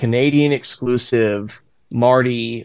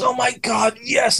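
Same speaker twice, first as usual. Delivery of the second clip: much higher, squealing delight; thrilled kid; 13 semitones higher than usual. Retold or imitated. A kid thanking the guard who got his pick, thrilled squeal. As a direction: gush like a kid handed a prize.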